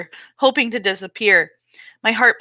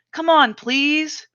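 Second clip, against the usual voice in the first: pleading; 6 semitones higher, much slower than usual. Acted. Brother pleading.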